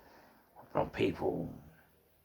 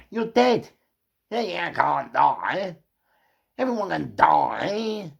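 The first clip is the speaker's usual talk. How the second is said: re-enacted threat, high and loud with drawn-out words; heated threat; 5 semitones higher, 4 dB louder, slower than usual. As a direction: preach it at him like a furious warning.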